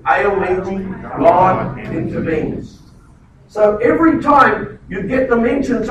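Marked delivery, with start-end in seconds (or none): 0.1-2.8 El means God intervenes drawn out very slowly for all to repeat; very slow call and response. Shown as a demonstration. Pastor leading the church to repeat it, very slow. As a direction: lead the crowd through it slowly. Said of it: "Everyone just say that with me".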